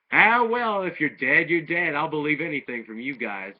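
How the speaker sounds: a giddy announcer who'll believe anything; excited announcer. Retold or imitated. Tournament announcer greets Goku's crew, loud and giddy. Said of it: "And the tournament announcer's like".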